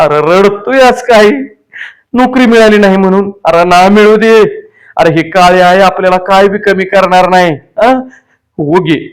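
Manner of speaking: father consoling his crying son, affectionate; comforting village father. Acted. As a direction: soothe the boy, then scold him gently.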